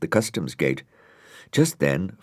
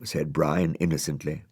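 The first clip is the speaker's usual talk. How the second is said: usual speaking voice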